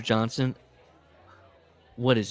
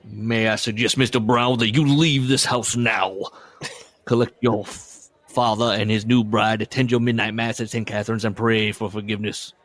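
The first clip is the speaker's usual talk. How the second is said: put-on Southern accent; 4 dB louder than usual. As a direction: order him out in a mild Southern accent. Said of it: "Those accents".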